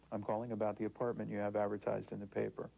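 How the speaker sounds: crisp standard telephone voice; professional voice. Shown as a demonstration. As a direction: sound polished and professional on the phone. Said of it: "I would call with my professional voice".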